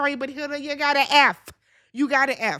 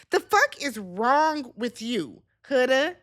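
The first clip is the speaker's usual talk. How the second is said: exasperated; slower than usual. Real, not acted. Exasperated rant at Huda.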